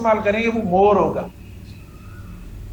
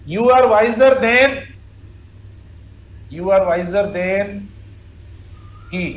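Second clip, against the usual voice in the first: "you are wiser than" dictated very slowly as the faulty sentence; wrong example; much slower than usual. Shown as a demonstration. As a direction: read the wrong form slowly and deliberately, word by word. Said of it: "ये होगा नहीं". (गलत वाक्य, बहुत धीमे बोला गया)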